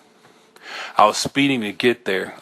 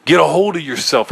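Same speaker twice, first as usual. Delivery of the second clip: stern self-command; 6 semitones higher, 4 dB louder than usual. A narrator's reading. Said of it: "I said".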